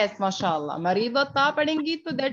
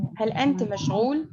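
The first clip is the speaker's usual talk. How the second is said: halting beginner reading; slower than usual. Shown as a demonstration. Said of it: "جب ہم نیا نیا سیکھتے ہیں تو ہم ایسے بولتے ہیں".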